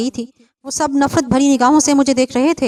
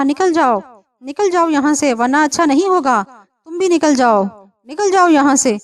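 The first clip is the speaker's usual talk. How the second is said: angry command; 4 semitones higher, 4 dB louder than usual. Acted. Possessing spirit drives everyone out.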